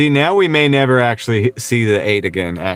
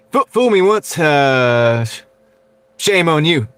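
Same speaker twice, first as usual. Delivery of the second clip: higher, halting Texan politician voice; George Bush impression; 3 semitones higher, slower than usual. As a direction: imitate a president fumbling an old saying. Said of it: "My Bush impression's probably not as good".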